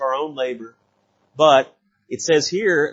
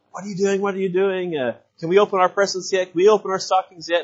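put-on higher, eager little boys begging to open presents; excited kids; 6 semitones higher than usual. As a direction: mimic nephews pleading on Christmas morning. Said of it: "my three nephews came up and they said".

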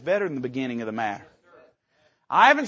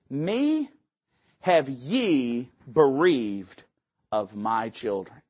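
grieving Jacob; 6 semitones lower, much slower than usual. Acted. Preacher voices grieving Jacob.

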